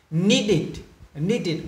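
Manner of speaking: Need it run together as two syllables. Shown as a demonstration. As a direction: finish Need it on a short it. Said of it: "E D lúc này được phát âm là". (đọc Need it liền nhau, đuôi "it")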